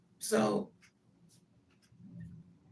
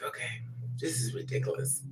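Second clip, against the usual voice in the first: hushed breathy aside; soft whispered eye roll; whispered exasperation; 5 semitones lower, 7 dB quieter than usual. Retold or imitated. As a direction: mutter it under your breath. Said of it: "And I'm like".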